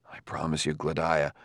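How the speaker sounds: low, soft reassurance; solemn promise. A narrator's reading. Bailey promises upset Gladia he will stand firm, reassuring.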